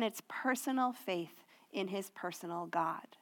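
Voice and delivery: hushed, whispered emphasis. Real, not acted. Pastor pressing personal faith on listeners in a whisper. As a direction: drop to a whisper to press the point. Climax of the point, dropping voice.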